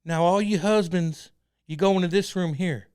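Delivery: loud, slow preacher drawl; cult leader impression. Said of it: "impersonation of him?".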